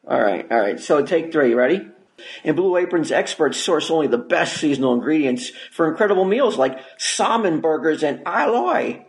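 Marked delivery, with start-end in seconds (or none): 2.4-9.0 sponsor read, steady and salesy. Acted. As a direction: read it like a radio ad. Host reads sponsor ad.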